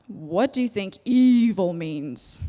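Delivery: lightly voiced rabbi asking; a hint of a questioning rabbi. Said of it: "That was my best rabbi impression".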